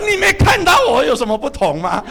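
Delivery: wife showing off her hair, mock-coy voice. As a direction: play the wife fishing for a compliment. Wife asks about hair.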